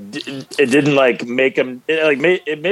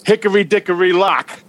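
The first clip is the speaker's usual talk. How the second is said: mock Scottish accent; 6 semitones higher than usual. Accent bit continues.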